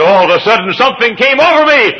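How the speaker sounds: very high, loud cry; preacher voicing the husband at full shout; husband's shouted story. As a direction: shout it like the call overcame him. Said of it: "and he said".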